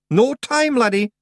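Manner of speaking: high, loud Scottish shout. A narrator's reading. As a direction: cut him off with an urgent high yell. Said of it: "shouted Rob Anybody".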